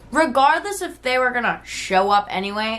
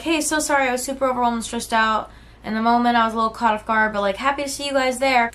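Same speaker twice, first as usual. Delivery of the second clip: fawning apology; 3 semitones higher, faster than usual. Retold or imitated. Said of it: "go into fawn response".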